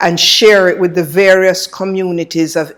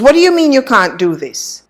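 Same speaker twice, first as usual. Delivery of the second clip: high, quick burst of disbelief; retold incredulous colleague; 7 semitones higher, faster than usual. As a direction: imitate a colleague's incredulous comeback.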